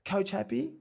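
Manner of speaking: high mock interrogation; comic coach impression; imitating the coach. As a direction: probe the player in a high coach voice. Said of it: "He goes".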